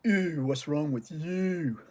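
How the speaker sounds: slow, mock-disgusted "Ew"; disgusted kids. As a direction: imitate kids recoiling in disgust. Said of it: "making a face like".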